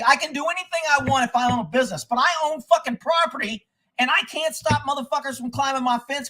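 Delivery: high-pitched, incredulous protest; indignant arguing. Retold or imitated. Property owner arguing with a deputy over rights, indignant.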